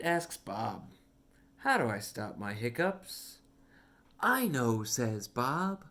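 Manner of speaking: lively storybook read with voiced characters; reading to children. Reading a picture book aloud to a young child, animated storytime voice. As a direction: read it like storytime for a little one.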